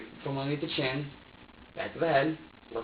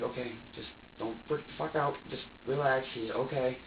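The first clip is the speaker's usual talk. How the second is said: retold calm; 5 dB quieter than usual. Suspect retelling how he tried to settle himself, understated calm. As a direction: quietly talk yourself down, retelling it. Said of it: "I just try to remain calm".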